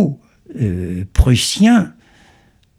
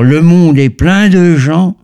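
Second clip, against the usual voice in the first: Parisian accent; 5 semitones higher, 3 dB louder than usual. Shown as a demonstration. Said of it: "je prendrai ce que j'appelle le, l'accent parisien".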